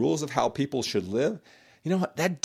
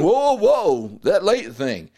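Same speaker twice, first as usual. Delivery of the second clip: mock objection; 5 dB louder, much slower than usual. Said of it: "If you're saying".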